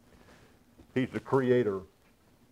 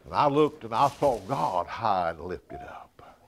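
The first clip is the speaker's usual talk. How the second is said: awed whisper. Acted. Retelling Isaiah's vision in awe.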